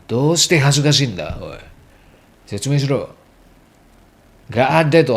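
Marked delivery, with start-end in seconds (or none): 0.1-3.1 mock scolding. Local scolds a shy foreigner, mild mock scold. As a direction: nag a shy speaker, lightly rough.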